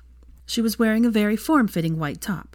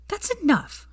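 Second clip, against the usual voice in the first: hissed; 13 semitones higher than usual. A narrator's reading. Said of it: "she hissed".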